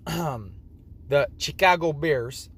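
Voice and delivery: put-on slow, drawn-out Chicago accent; lightly put-on Chicago accent, words stretched out. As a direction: try a Chicago accent, taking it slowly. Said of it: "Hopefully, I'm doing the Chicago accent right".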